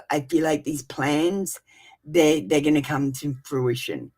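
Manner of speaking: steady, measured reading voice; tarot reading. Acted. To her live viewers, a steady tarot reading. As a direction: deliver the cards like a calm oracle.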